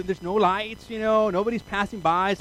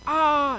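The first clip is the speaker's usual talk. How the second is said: mock scream; 10 semitones higher, 7 dB louder than usual. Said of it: "You're screaming".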